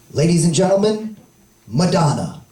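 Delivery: low, rolling emcee intro; announcer voice. Retold or imitated. Comic as concert host announcing a singer, emcee voice. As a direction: boom it out like a stage host. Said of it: "my job is to say".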